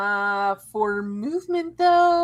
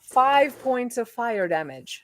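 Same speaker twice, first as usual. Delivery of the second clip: slowed down, clearly spaced repeat; measured, slower restatement. Real, not acted. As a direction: repeat it slowly for someone who missed it. Repeats damage when asked what it was.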